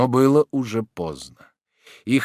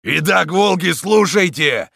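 loud, raised call to order; thunderous voice; 8 semitones higher, 7 dB louder, slower than usual. A narrator's reading. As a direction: boom it out to command the pack. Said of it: "раздался громовой голос камнелома".

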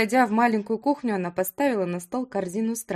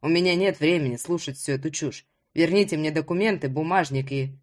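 put-on slightly impatient young hero, pitched lower; lowered voice for an impatient man; lightly voiced Ruslan, impatient; 4 semitones lower than usual. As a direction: play a demanding hero in a lower voice.

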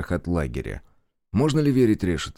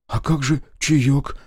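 a dismayed gasp, higher, louder and slow; ахнул; 6 semitones higher, 4 dB louder, slower than usual. Acted. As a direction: let the question break out in alarm. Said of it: "ахнул Аверкин". (ахнул, растерянно и громко)

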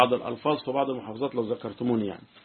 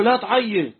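Jordanian man retorting; 11 semitones higher, 4 dB louder than usual. Retold or imitated. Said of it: "قال له".

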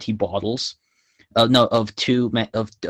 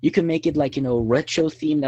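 much higher imitation of an enthusiastic principal; 7 semitones higher, 4 dB louder than usual. Student imitating the principal green-lighting the ad, high and enthusiastic. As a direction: act out a delighted, approving principal, pitched up. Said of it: "she was like".

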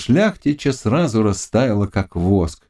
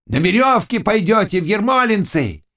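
stern threat; 9 semitones higher than usual. A narrator's reading. Zagloba threatens.

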